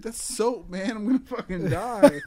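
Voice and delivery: a stoner who just snorted soap, high panicked voice; high-pitched stoner voice. Retold or imitated. Voicing stoner character choking.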